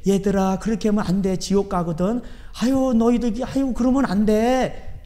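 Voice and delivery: mock Jesus as a meek nag; mock gentle scolding. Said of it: "이랬을까요?". (예수님이 상을 엎으며 느리고 부드럽게 타이르는 흉내)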